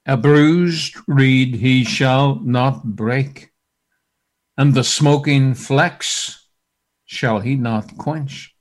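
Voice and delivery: slow, solemn reading; scripture reading. Real, not acted. Preacher reading Isaiah slowly and solemnly. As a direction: intone the verse slowly. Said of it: "It says this".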